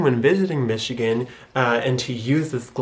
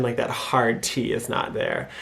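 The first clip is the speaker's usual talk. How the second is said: normal talking voice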